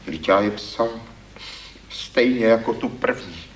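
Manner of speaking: a hint of a lament; lightly voiced wail. A narrator's reading. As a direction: plead your case, hurt and whiny. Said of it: "zaupěl hlas".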